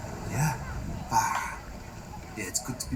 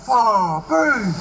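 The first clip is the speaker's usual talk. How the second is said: excited greeting; 6 semitones higher, 5 dB louder than usual. Real, not acted. Excited greeting of returning friend.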